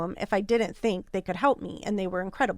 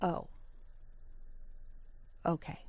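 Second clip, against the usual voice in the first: softer, stunned and lower; deflated okay; 4 semitones lower, 14 dB quieter than usual. Real, not acted. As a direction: let the sting land. Stunned after insult.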